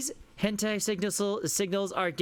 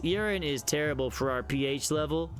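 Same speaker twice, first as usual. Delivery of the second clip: put-on terrible southern accent; 3 semitones lower than usual. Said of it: "my terrible southern accent going".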